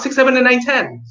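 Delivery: quick count; fast counting. Shown as a demonstration. Teacher demonstrates fast counting to kids. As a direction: rattle off numbers fast. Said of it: "or fast".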